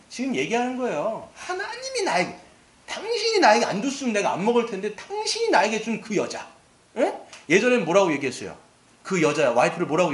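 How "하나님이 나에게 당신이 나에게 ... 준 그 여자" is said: high, whiny excuse voice, blaming God; whiny Adam blaming. Retold or imitated. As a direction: make excuses like a sulky man caught out. Adam blames God, acted quote.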